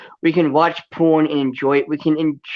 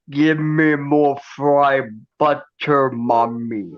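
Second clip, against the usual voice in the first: slow whining manchild; slow whiny baby voice; slower than usual. Retold or imitated. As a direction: whine it like a spoiled child. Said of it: "so he's like".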